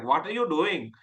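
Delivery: daughter mimicking dad's Asian accent; lightly mocked South Asian accent; imitated strong Asian accent. Daughter teasing her dad about his talk, imitated Asian accent. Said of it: "my daughter does it to me".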